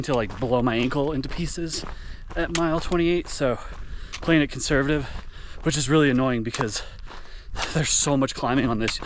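panting as he runs downhill; while running. Real, not acted. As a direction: talk while jogging downhill. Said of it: "Here's a sample of the downhill".

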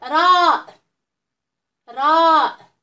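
letter called out loudly, clear and drawn; loud model letter. Shown as a demonstration. Teacher drilling young pupils aloud. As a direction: say it big so the kids copy. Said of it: "نعاودوهم مع بعض".

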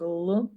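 Л as a dark, unsoftened l; hard consonant. Shown as a demonstration. Teacher analyses лев for children, sounding a hard Л. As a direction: sound out Л alone, without palatalizing. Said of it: "твердий приголосний".

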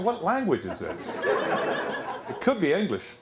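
laughing disbelief. Real, not acted. Baffled listener laughing.

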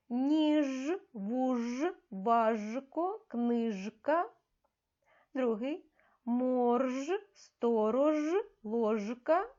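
words read with a clearly voiced final "ж", as in "Ніж". Shown as a demonstration. Teacher models words with a voiced zh for children. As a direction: pronounce the "ж" in "Ніж" fully voiced, never as sh. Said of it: "ми його читаємо чітко".

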